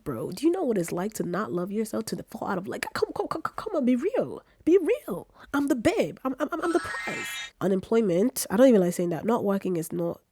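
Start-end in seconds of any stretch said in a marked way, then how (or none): 0.3-7.3 mock British accent climbing much higher; hammed-up high British diva. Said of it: "I gotta drop this British accent".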